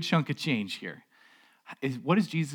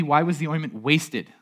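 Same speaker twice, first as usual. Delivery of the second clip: mildly indignant, louder protest; 3 semitones higher, 6 dB louder than usual. Acted. Disciples objecting to the wasted ointment, mildly indignant. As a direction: protest with a touch of outrage. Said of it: "they say indignantly".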